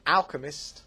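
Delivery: ordinary delivery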